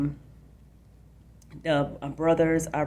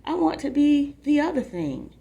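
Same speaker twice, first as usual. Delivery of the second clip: higher and louder, eager declaration; excited insistence; 9 semitones higher, 6 dB louder than usual. Acted. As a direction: pour a kid's big dream out to your brother. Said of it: "I said".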